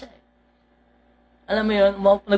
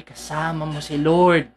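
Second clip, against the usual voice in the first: reassuring; 6 semitones lower, slower than usual. Shown as a demonstration. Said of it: "sinasabi ko lang lagi".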